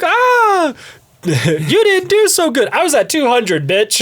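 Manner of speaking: high, slow, mocking toy voice; taunting toy voice. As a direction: sneer like a trash-talking toy. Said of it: "You'd be like".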